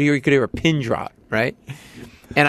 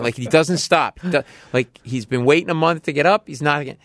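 usual speaking voice

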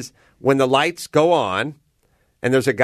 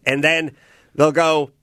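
ordinary talk

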